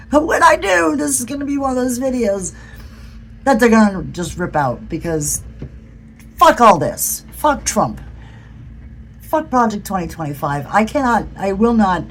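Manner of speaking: real exasperated fury, swearing; angry outburst. Real, not acted. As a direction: let the anger spill out, swearing hard. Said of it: "I'm sorry I'm angry at maga".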